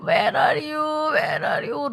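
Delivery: high, drawn-out call for mama; a young monkey calling out for mother; baby monkey calling out. Acted. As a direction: call for mama across the house, pleading. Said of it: "सब जगह चिल्लाता है".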